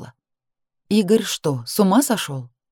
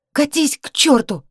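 higher, slow furious shout; 9 semitones higher than usual. Acted. Woman fights off her ex, high slow shout. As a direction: throw it at him, high and slow.

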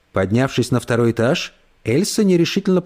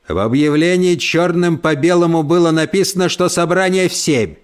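barked; 4 semitones higher than usual. Acted. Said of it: "гаркнул Альф".

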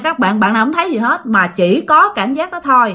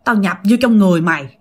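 lightly voiced growling male spirit, hurried; a quick, half-acted menacing growl; imitated growl; 4 dB louder, faster than usual. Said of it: "mà nói gầm gừ, gầm gừ vậy đó".

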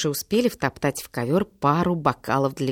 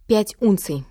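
ordinary delivery

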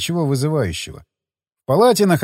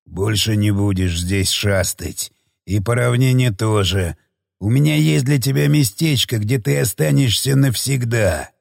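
spiteful monster voice; 5 semitones lower than usual. Acted. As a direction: snarl it with desperate malice. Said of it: "произнёс с отчаянной злобой".

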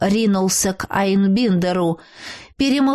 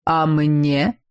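low, sneering voice of the undead king; mocking undead king; 5 semitones lower than usual. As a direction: toss it out with a lower, mocking sneer. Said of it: "насмешливо сверкнув багровыми глазами, спросил король нежити".

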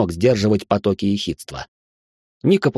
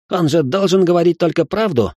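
higher, irritated complaint; indignant young man, higher pitch; 7 semitones higher than usual. A narrator's reading. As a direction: snap it out, annoyed and higher. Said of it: "раздражённо уточнил он".

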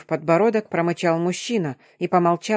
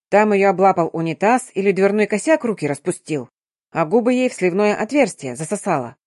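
ordinary delivery

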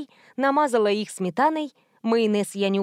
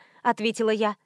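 ordinary delivery

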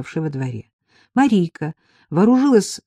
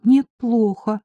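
raised pitch, feeling unwell; sick voice; 6 semitones higher, slower than usual. A narrator's reading. Marika tells her friend by phone, sick voice. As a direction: complain like someone ill. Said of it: "сказала Марийка больным голосом".

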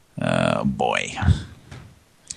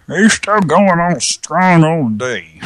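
put-on old-timer voice; 10 semitones higher, 4 dB louder, slower than usual. Jokey voiced aside about Wilford.

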